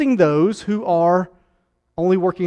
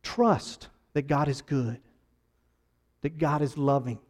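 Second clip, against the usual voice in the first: hushed pastoral benediction; gentle closing appeal. Acted.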